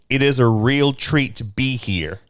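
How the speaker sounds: lightly put-on Australian accent, heavy on the R's; Rose Byrne's Australian accent. Shown as a demonstration. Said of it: "my version of Rose Byrne's accent".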